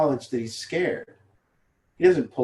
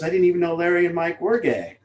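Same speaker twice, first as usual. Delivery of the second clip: laughing mock gossip; 5 semitones higher, 3 dB louder than usual. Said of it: "somebody goes".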